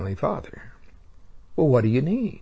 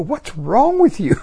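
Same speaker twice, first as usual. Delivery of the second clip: grandfather's voice; 11 semitones higher, 4 dB louder than usual. Retold or imitated. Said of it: "He'd go".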